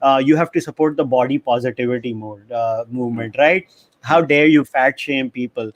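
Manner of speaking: preachy outraged activist, tongue in cheek; mock indignant lecture about fat shaming; social justice activist. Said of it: "get into my social justice activist mode".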